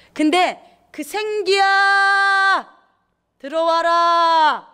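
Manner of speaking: loud, very slow, high call; stretched-out ringing call. Acted. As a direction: summon the breath of life like a command. Calling the breath of life in.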